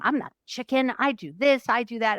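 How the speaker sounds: mock-indignant self-defence; defensive justifying. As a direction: justify yourself, retold in a huff. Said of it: "like, justifying".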